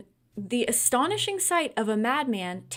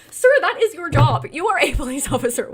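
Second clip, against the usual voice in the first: much louder, higher, scolding the officer; angry scolding; 5 semitones higher, 10 dB louder than usual. Real, not acted. Scolding the officer who won't investigate, loud and angry. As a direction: tell the cop off at full volume. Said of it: "That made me so angry".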